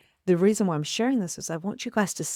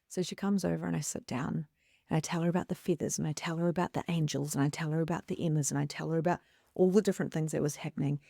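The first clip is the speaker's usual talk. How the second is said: normal talking voice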